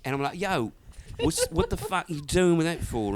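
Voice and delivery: Essex British accent storytelling. Shown as a demonstration. Essex lad telling of rough guys, British accent. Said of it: "'cause I do good British".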